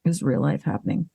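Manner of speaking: talking through hiccups; words broken by hiccups. Real, not acted. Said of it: "burps and hiccups right now".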